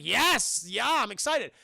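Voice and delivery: mock-excited outburst. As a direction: retell an excited acceptance. Acted eager yes to a kiss.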